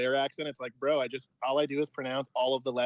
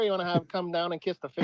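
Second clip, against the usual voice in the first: higher mock Maritimes accent; East Coast Canadian; 4 semitones higher than usual. Caller plays a Maritimer, East Coast Canadian accent. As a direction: play a friendly East Coast Canadian local. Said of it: "like, the Maritimes".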